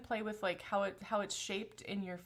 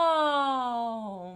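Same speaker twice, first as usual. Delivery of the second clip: nasal meow; 3 semitones higher, 9 dB louder than usual. Shown as a demonstration. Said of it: "maybe even nasal".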